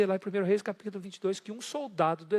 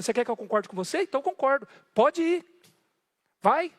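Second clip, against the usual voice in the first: sarcastic, rising higher and louder; mock agreement, pushed up high; ironic; 5 semitones higher, 4 dB louder than usual. Prophet sarcastically agreeing with the king, much higher. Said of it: "ironicamente, falou".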